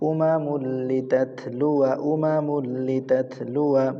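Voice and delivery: "উমা মুল লি তাত লুয়া" recited evenly, without ghunnah; no nasal hold. Shown as a demonstration. Teacher models words for students, "লি তাত লুয়া" without ghunnah. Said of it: "কোনো গুণ হবে না".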